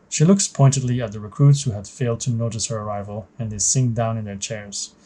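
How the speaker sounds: measured, even story read-aloud; story narration. A narrator's reading. Narrator setting the scene for a new trainee pilot, story narration. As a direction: narrate it like a mission briefing.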